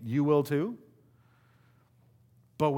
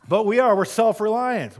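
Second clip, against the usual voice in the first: louder, higher with a laugh; 7 semitones higher, 9 dB louder than usual. Real, not acted. Pastor laughing at congregation's self-reliance. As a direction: laugh it out loud.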